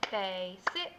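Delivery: "basic" split into two clapped beats; clapped syllables. Shown as a demonstration. Teacher clapping the word for kids, syllable by syllable. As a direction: clap out "basic" beat by beat. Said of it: "if we were to clap it".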